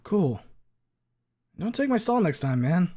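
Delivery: casual high jock voice; light teasing buddy; bro voice. Acted. Leon voice.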